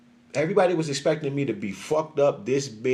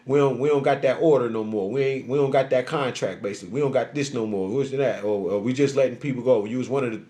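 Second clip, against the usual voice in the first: lower, flat boss delivering bad news; 5 semitones lower than usual. The boss on the phone explaining the layoff, lower voice. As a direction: play the supervisor laying him off, lower. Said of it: "You like".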